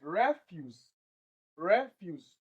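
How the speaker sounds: "Refuse" said REF-use, falling after REF; stress on first syllable. Shown as a demonstration. Teacher shows re is stressed, first-syllable stress. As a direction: put the weight on REF in "Refuse". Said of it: "that re is stressed".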